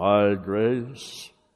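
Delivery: heavenly, decree-like pronouncement with "grace" drawn out. Quoting God's words while an interpreter translates, God voice. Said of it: "So I can sound like God now".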